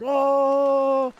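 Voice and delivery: put-on high, loud gushing "Oh" over a child's gift; an imitated wife going all mushy. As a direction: melt into a soppy coo. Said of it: "she gets all mushy and weird".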